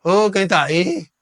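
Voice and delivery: loud, drawn-out call; grito do defunto. Retold or imitated. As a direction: call out slowly like the dead man. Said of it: "o defunto lá gritou". (grito alto e arrastado de defunto)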